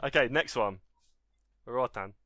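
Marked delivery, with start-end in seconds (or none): 1.7-2.1 a poor mock-French accent; clumsy French-accented name; terrible French accent. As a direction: try a French accent and fail. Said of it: "this is the worst French accent".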